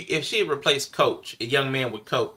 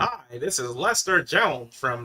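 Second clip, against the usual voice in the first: mock reporter voice; much slower than usual. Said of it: "the bug in his mouth".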